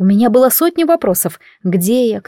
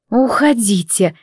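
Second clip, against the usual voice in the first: grumbled; slower than usual. Acted. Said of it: "буркнула я".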